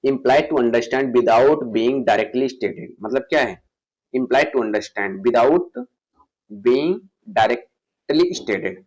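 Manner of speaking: very slow, word by word English; slow dictation. Shown as a demonstration. Teacher reading the definition slowly for students to copy it. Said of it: "reads English definition slowly".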